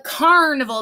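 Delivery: "carnival" with a long "ar"; emphasized AR. Shown as a demonstration. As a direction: stretch the AR in "carnival". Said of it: "Do you hear that R".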